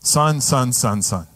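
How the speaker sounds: tender father. Acted. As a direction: coax the son gently. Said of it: "The Father comes out to him and says".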